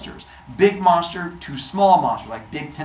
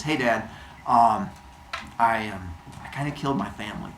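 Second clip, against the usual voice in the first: lower, softer, hesitant admission; sheepish confession; 6 semitones lower, 6 dB quieter than usual. Acted. Heracles confessing to Zeus: low sheepish mumble. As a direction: mumble it like a guilty kid.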